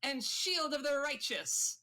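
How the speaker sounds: grand introduction. Acted. Paladin grandly introduces herself.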